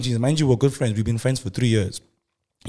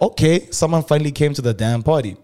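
excited; 5 semitones higher, 5 dB louder than usual. Retold or imitated. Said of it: "she pulled that O".

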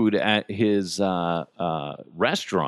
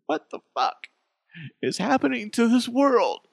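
mock outrage; 12 semitones higher than usual. Real, not acted. Mock outrage at inflation news.

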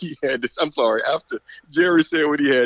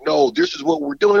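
imitating the team; 12 semitones higher than usual. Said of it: "everybody was like".

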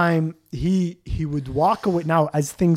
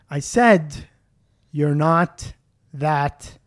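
slow, spaced-out delivery with pauses; measured, unhurried comeback; deliberate put-down; slower than usual. Retold or imitated. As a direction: land each word of the put-down separately. Retelling his cutting comeback, deliberately.

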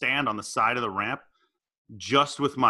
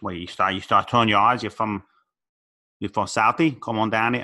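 halting attempt at a Boston accent; badly faked Southie Boston accent. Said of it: "I can't do a Boston accent at all".

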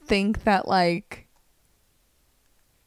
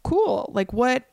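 flustered surprise; 5 semitones higher, slower than usual. Retold or imitated. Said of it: "I was just like".

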